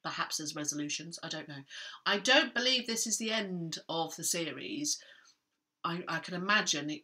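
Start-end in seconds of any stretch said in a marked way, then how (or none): 2.1-5.0 whisper. Real, not acted. Aside about the series.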